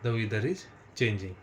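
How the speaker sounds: each word drawn out; slow dictation. Shown as a demonstration. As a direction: dictate slowly, clearly. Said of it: "teacher dictating slowly". (धीरे-धीरे लिखवाना)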